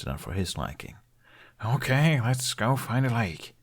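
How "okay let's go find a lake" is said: weary, slowed sigh. Acted. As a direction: give in with a resigned sigh. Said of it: "Hiccup sighed to the dragon".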